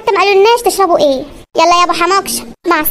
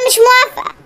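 mocking the bride; 3 semitones higher than usual. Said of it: "وهي تقول لك مش موافقة".

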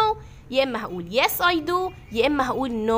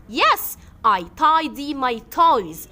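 bright model answer; 4 dB louder, much slower than usual. Pretend. Teacher models Judy's answer.

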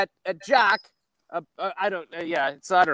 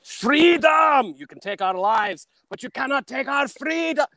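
hammed-up rallying speech, high drawn-out shouts; mock battle cry; 7 semitones higher, slower than usual. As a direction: cry it out like a film hero. Performs the Braveheart battle speech.

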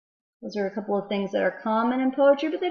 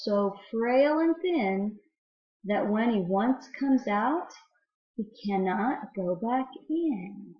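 mysterious, teasing read-aloud that slows at the end; riddle poem reading; slower than usual. Acted. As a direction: let the riddle hang for the children to guess.

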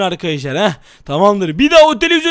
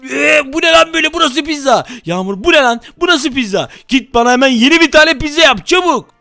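angry act; 2 semitones higher than usual. Acted. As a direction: order a new pizza, furious. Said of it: "sinirli taklidine geçelim". (bağırarak pizza isteme)

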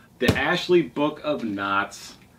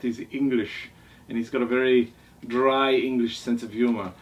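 lightly put-on English accent; badly faked English accent, played for fun; mock English accent. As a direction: attempt a slightly hammy English accent. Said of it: "so sorry about the accent".

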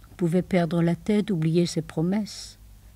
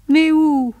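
anguished cry; 8 semitones higher, 8 dB louder than usual. Acted. Distraught woman on phone.

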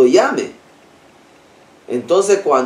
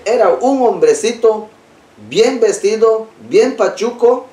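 put-on pitched higher, a boy eagerly describing the little man; high, eager retelling of a child's words; 6 semitones higher than usual. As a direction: lift the voice like an excited child telling his mom. Boy tells mother about stranger.

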